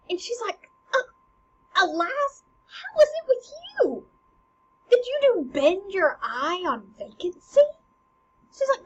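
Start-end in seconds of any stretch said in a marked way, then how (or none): 0.9-7.6 high, loud acted distress; alarmed queen. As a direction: play a mother frightened for her son. Queen alarmed at her son's behavior.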